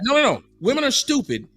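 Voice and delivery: emphatic. Real, not acted. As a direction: hammer the point home. Repeats claim more forcefully.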